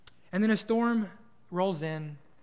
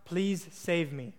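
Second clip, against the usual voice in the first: praying out; much slower than usual. Acted. Stranded man praying out to God, slow retold plea. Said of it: "once again, he prays out".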